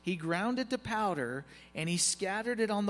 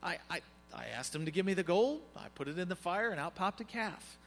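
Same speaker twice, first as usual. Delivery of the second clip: stammering, badly faked excuse; bad liar's story. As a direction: fumble through a feeble alibi. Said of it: "it's the worst storytelling ever".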